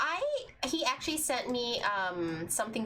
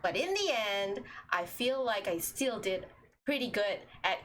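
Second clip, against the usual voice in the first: Stork voice. Shown as a demonstration. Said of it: "this is Stork's voice".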